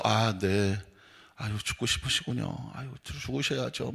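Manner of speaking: low, soft, resigned agreement; subdued mock sympathy. Pastor humoring a complaining member, subdued mock sympathy. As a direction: play the meekly commiserating counselor.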